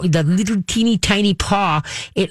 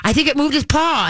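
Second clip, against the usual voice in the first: put-on much higher, a little girl's hopeful voice; voicing her daughter; 10 semitones higher than usual. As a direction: imitate the eight-year-old, wide-eyed. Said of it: "Cassandra goes".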